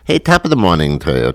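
Irish accent. Shown as a demonstration. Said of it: "That's my Irish accent".

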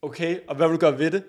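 laughing through a retold challenge; came out wrong, laughing. Retelling how his peace talk came out, laughing. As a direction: let a giggle break the question. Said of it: "Måden, det kom ud på".

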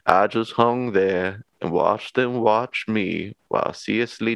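a light attempt at a Cajun accent; faintly Cajun storyteller voice. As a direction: read the quote in a subpar Cajun accent. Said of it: "that was my best attempt at a Cajun accent".

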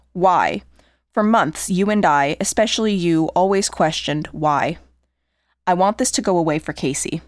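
letter read aloud. Acted. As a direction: read the note steadily and gravely. Reads suicide letter aloud.

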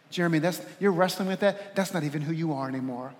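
softening, lowering reassurance; Spirit's gentle prompting. Acted. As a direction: gently correct him, dropping to a low hush. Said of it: "from the Spirit of God".

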